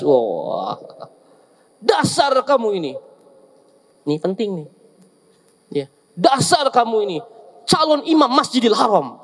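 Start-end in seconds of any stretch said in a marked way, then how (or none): 1.8-2.9 higher opening, falling exasperated reproach; mock scolding. Mother scolding little Sudais, mock angry. 6.1-9.2 mock anger turned into a blessing; pretty scolding. Mother scolding son as future imam, mock angry. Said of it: "Tapi marah yang cantik".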